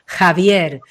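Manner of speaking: Javier said slowly, with pride and enthusiasm; empowered name call. Shown as a demonstration. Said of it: "desde el empoderamiento".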